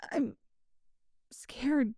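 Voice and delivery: whispered confession. Acted. Stray cat girl confessing her fear, whispered. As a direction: breathe it out under her breath.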